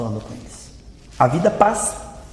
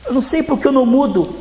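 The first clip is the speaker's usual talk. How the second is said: sad churchgoer; 4 semitones higher than usual. Acted. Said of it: "eu sou uma pessoa triste".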